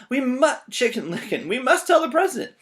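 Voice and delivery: high, loud frantic cry; panicked bird. Acted. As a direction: insist in a panic. Birds panic.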